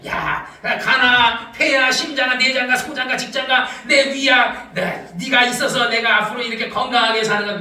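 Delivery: low, familiar talk to one's own body; coaxing one's organs. Shown as a demonstration. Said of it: "여러분 장기에게 얘기해".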